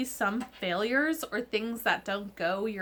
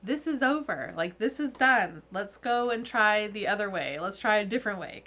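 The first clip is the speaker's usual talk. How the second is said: determined; 5 dB louder than usual. Retold or imitated. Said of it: "be like".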